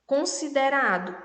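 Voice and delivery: Considerado spoken in five clear syllables, con-si-de-ra-do. Shown as a demonstration. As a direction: sound out Considerado for the class. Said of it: "cinco sílabas".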